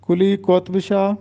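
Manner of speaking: قطب said as "qotb", no vowel between t and b; کلی قطب Shah spoken "kuli qotb shah"; careful teacher's model of کلی قطب Shah; correct pronunciation. Shown as a demonstration. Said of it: "کاف پر پیش ہوگا اور توئے پر جزم".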